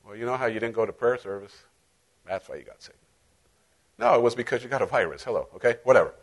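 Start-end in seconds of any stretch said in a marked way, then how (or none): 0.0-3.0 low, soft accusing whisper; accusing thought. Acted. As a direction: slip it in like a nagging inner voice. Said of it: "what's the first thought".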